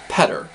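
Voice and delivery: "peder" begun on a clear p; Welsh with P. Shown as a demonstration. Comparing words for four, showing the p in Welsh "peder". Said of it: "with the P".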